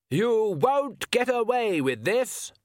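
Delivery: very high, slow falsetto mockery; mock witch voice. A narrator's reading. Count ventriloquising the witches, high mocking falsetto. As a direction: put the line in her mouth.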